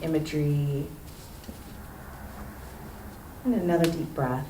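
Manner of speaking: soft, settling voice with long pauses; guided breathing moment. Real, not acted. Poet inviting the audience to close their eyes, guided breathing.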